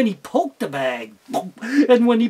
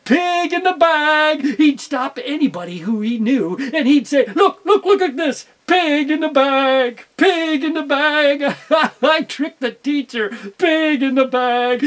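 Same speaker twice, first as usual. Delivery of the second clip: gloating glee; 4 semitones higher, 4 dB louder than usual. Acted. Fox boasting to passersby, loud gleeful gloat. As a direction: crow with delight over your prize.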